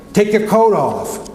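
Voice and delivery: high, slow, called-out words; shouting over the noise. Retold or imitated. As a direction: call it out slowly to someone far away. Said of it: "I shouted".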